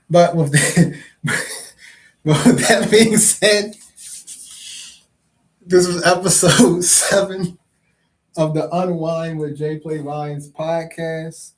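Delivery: real laugh breaking up the sign-off; loud, high, fighting laughter through the words. Real, not acted. Cracking up during the sign-off.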